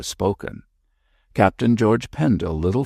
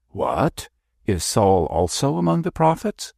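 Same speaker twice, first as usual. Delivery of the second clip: amused, raised astonishment; mock surprised cry; 5 semitones higher than usual. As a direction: George feigns shock at the bishop's visit, teasing surprise. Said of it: "cried George, with uplifted eyebrows".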